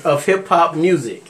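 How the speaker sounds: fans punched out loud, laughing; loud laughing announcement. Real, not acted. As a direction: shout it again through a laugh.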